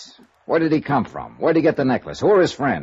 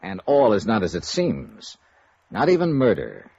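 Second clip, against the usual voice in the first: dramatic teaser. Acted. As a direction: tease tomorrow's episode with suspense. Star teases next episode.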